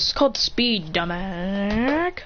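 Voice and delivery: smug put-down, last word stretched out; cocky retort. Acted. Christian answering how he got in, cocky retort. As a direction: drag out the insult mockingly.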